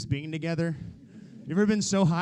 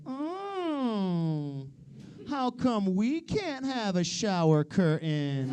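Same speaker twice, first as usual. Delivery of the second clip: put-on ex-girlfriend whining; 2 semitones higher, 3 dB quieter, much slower than usual. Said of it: "She'd always look at me like".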